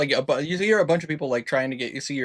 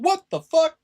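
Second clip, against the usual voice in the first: high shouted what the fuck; shocked passerby; 7 dB louder than usual. Retold or imitated. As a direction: blurt it out like a stunned passerby. Passerby reaction voiced by GM.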